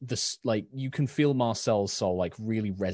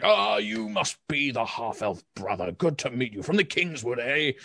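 lightly voiced big man; 5 semitones higher than usual. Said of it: "It's just like".

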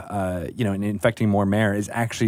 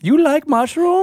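pitched way up, slow; high character voice; 5 dB louder than usual. Pretend. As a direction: echo the mushroom elf. Mimics the character voice back.

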